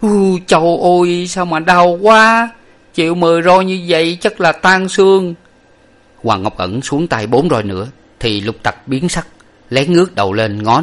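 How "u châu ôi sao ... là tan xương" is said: pained muttering to himself. A narrator's reading. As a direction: wail to yourself, drawing the words out. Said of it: "cắn răng hít hà nho nhỏ và nói thầm rằng".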